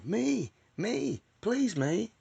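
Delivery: put-on high, pleading kid begging to be chosen; a kid straining to be picked, voice up high; eager kid pleading to be called on. Johnny still begging.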